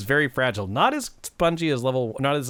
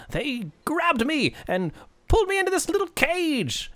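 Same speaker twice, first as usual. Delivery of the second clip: leprechaun telling his woes, pitch leaping up; indignant leprechaun; 5 semitones higher than usual. Acted. Game master plays caged leprechaun.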